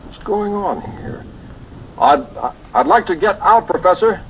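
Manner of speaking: panicked cry to be let out; rising panic. Acted. Panics, trapped in coffin.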